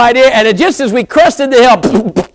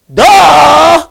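mock duh; 6 semitones higher, 5 dB louder than usual. Mocking his own obvious situation.

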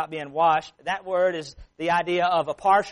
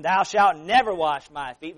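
louder, slowed, firm refusal on never; emphatic refusal; 6 dB louder, slower than usual. Retold or imitated. Preacher voicing Peter refusing Jesus, emphatic and louder. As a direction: put your foot down: Thou shalt never wash my feet. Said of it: "Very emphatic".

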